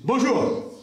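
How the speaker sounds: lightly voiced gang boss, bossy. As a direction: order the hotel staff around like a boss. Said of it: "il arrive comme un patron".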